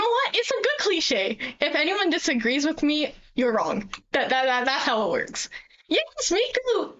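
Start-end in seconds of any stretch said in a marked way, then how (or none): 5.9-6.9 excited cheer. Real, not acted. Fan cheering for favourite character.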